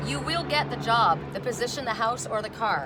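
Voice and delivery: delighted to read a happy outcome; excited announcement. Real, not acted. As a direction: announce the good news. Reading the card's promise.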